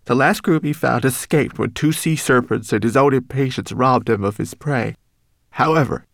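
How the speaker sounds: high, small homunculus voice; a tiny frightened creature warning. Acted.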